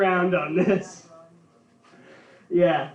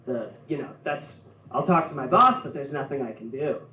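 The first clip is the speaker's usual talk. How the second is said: put-on Minnesota accent; 4 dB quieter than usual. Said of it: "I love how they talk".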